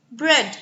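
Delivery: Bread said clearly as a model; Bread, demo pronunciation; model word. Shown as a demonstration. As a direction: say Bread with a short open e. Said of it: "So you can see the difference in the sound".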